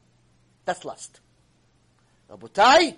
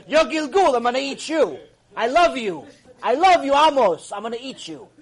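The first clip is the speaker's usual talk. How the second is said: mock chicken's voice; 6 semitones higher, 9 dB louder than usual. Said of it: "The chicken's gonna come to you and say".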